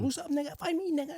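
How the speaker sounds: high-pitched imitation of a cholo; mock cholo. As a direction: put on a high, taunting cholo voice. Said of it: "the cholos that we using it".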